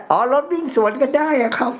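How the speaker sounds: light, high-pitched mock amazement; mock surprised realization. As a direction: act out a sudden dawning realization. Retells his belated realization about the road.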